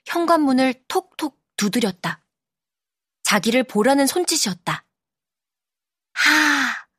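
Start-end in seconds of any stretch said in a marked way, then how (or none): 6.1-6.9 drawn-out voiced "ha"; slow fogging-the-glass breath; long exhale. A narrator's reading. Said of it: "숨을 길게 뱉었다".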